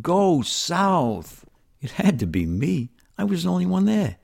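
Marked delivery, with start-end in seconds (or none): 0.0-1.4 high, drawn-out booming shout. Retold or imitated. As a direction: call it out high and long, like a command from nowhere. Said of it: "I hear this shout".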